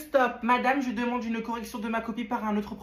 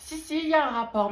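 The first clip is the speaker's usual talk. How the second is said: insistent mom; 6 semitones higher, 6 dB louder than usual. Acted. Mother arguing with son.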